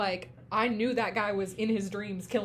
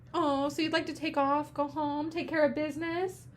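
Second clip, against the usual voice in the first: higher-pitched mock sympathy; sarcastic; 6 semitones higher than usual. Boss to employee wanting to go home, sarcastic. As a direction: feign understanding, sarcastically. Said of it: "how he was being sarcastic right there".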